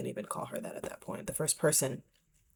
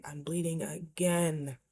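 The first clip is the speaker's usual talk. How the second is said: hushed, weary despair; slow tearful whisper; slower than usual. Retold or imitated. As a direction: whisper it slowly, worn out from crying. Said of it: "waking up, crying".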